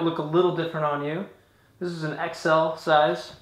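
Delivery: speaking through helmet chin bar; muffled inside helmet. Real, not acted. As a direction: helmet covering mouth. Seen 3: Helmet chin bar covers mouth throughout; removed by 4.6 s.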